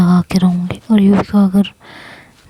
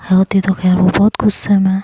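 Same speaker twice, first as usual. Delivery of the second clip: usual speaking voice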